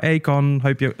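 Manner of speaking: lightly imitated Australian accent; hint at an Australian accent. Quoting an Instagram message, light Australian accent. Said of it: "but in an Australian accent".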